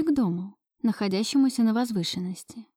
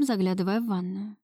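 ordinary delivery

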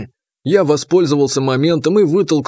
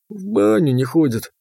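sad sigh. A narrator's reading. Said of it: "грустно вздохнул банник".

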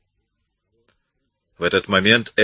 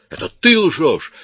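much higher, louder and slowed yell; furious shout; 11 semitones higher, 6 dB louder than usual. A narrator's reading. Accused woman yelling back, furious shout. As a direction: throw the lie back at him. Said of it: "закричала Кара".

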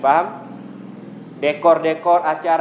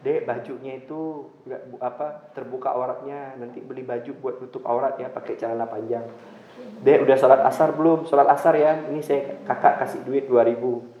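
gentle advice; 2 semitones lower than usual. Shown as a demonstration. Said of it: "ente bilang".

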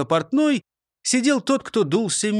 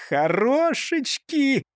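smiling; 9 semitones higher, slower than usual. Acted. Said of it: "улыбнулся Густав Гейер".

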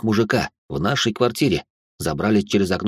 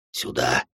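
hushed whisper, much softer; 10 semitones lower, 6 dB quieter than usual. A narrator's reading. Intruder hisses to his partner: hushed whisper. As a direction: breathe it out low and quiet. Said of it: "кто-то прошептал".

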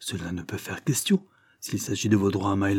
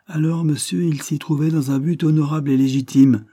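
higher, louder, emphatic defence; indignant retort; 6 semitones higher, 5 dB louder than usual. A narrator's reading. Lord Dane defending his son's honour, indignant. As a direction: retort firmly with raised voice.

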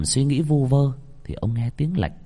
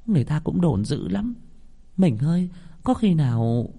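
fearful wife; 7 semitones higher than usual. Acted. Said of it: "Bà Thu nép vào trong ngực chồng".

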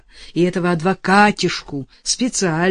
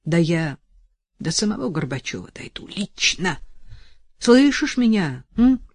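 passionate vow. Acted. Vow to jailed lover.

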